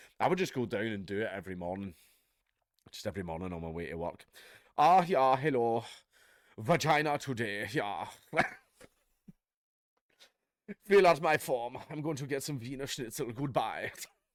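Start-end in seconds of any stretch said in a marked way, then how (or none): 4.8-13.9 clumsy, poor, fake German accent. Imagining someone making a declaration at the registry office each morning, bad german accent. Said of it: "I can't do a German accent".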